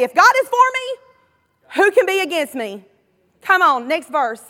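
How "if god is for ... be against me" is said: declaring it. Pretend. Pastor urging the church to declare it, loud and bold. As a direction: proclaim it boldly for all to hear. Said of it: "Somebody need to say".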